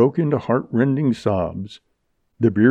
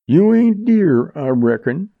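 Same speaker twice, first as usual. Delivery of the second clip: scornful, starting high and falling away; obvious scorn; 8 semitones higher, 5 dB louder than usual. A narrator's reading. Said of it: "with obvious scorn".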